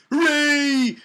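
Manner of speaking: high, loud hammed-up cheer; mock cheer. Old Terminator celebrating his trailer stunt, hammed-up cheer. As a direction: cheer like a cartoon hero.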